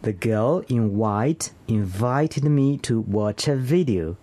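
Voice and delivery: slow careful repeat, buzzing V in INVITED and VIDEO; V practice sentence. Shown as a demonstration. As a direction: repeat slowly, keeping WHITE apart from VIDEO. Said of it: "Whenever you need a V sound".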